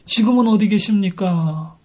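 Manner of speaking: retold cry of longing; understated, preacherly lament; anguished plea. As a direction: plead to God in mild anguish. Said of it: "이렇게 안타깝게 절규하고 있는 것입니다".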